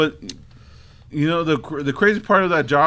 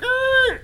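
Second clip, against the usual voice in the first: sound effect grunt. Retold or imitated. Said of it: "I did one of these things".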